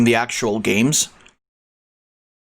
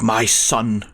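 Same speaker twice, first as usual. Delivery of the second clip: mad scientist; 3 semitones higher, much slower than usual. Acted. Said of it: "Mega Mind joke".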